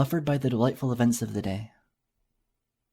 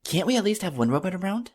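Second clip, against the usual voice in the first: higher, whining little filly; 7 semitones higher than usual. Acted. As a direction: ask like a pouty child. Child voice Moondancer pleading.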